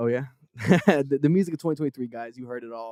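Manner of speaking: ordinary talk, nothing marked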